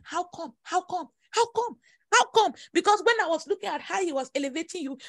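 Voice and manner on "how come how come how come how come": mock crowd asking. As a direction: let the jealous question build up. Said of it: "They are asking".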